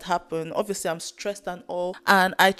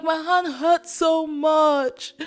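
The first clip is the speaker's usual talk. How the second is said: loud, high, drawn-out wail; mock crying wail; 8 semitones higher, 3 dB louder, much slower than usual. Patient in the scanner with hurting hand, wailing in imitation. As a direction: stretch it into a pained, high-pitched cry. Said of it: "And I'm crying".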